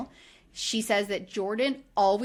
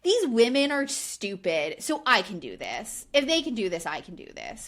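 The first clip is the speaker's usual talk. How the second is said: mocking smug husband. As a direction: sneer his scheming thoughts with mock smugness. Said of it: "So he thinks".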